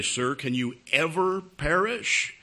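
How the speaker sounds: slow, deliberate quizzing of a doubter; slow, pointed question. Acted. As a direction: draw out the question word by word.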